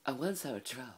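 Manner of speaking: put-on high, silly made-up Norwegian accent; random mock Norwegian accent. Vlogger voicing a Norwegian troll hunter, in a high put-on accent. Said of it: "I can't do accents, so I'm just gonna do a random one".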